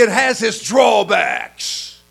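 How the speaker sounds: slow, loud, spaced-out words; emphatic shout. Real, not acted. Preacher to congregation, slow emphatic shout. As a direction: hammer each word home.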